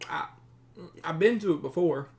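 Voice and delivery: high-pitched, stammering simpleton voice; nervous captive bandit. Acted. Captive bandit explains himself to his captors, high and halting. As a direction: stumble anxiously through an explanation.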